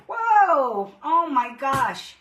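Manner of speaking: sudden high startled yelp. Real, not acted. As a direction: gasp it out, caught off guard. Paint squirts out too much.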